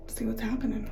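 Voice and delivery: real whisper, plotting to peek. Real, not acted. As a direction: hush it like you're sneaking up. Sneaky plan to peek.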